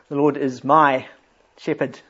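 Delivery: The Lord is my shepherd with a pause after my; stress on my. Shown as a demonstration.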